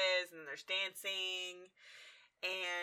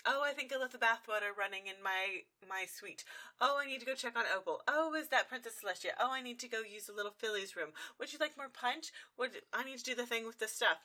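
frantic excuses; 4 semitones higher than usual. Retold or imitated. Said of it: "now we get Rarity's excuses".

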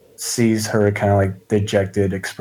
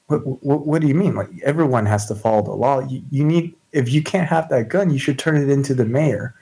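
lightly voiced earnest innocent, stammering; startled law-abiding newcomer, protesting; 5 semitones higher than usual. Shauna objecting to the lawless townswoman, startled. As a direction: protest with a touch of startled naivety.

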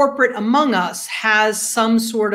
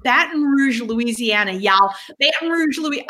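playful attempt at a Southern accent. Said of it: "if that's a good Southern accent".

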